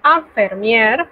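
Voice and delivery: Infirmier said slowly in French; careful teacher model; slow French word. Shown as a demonstration. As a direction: stretch out Infirmier. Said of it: "se pronuncia igual".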